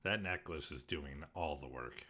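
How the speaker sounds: eating crunchy chips while talking; munching through the words; crunching chips. Real, not acted. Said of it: "Sorry for the crunchy".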